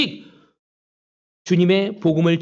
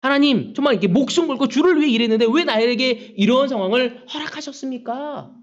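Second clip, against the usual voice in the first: aggrieved plea; 4 semitones higher than usual. Retold or imitated. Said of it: "이런 원망하지 않겠습니까?".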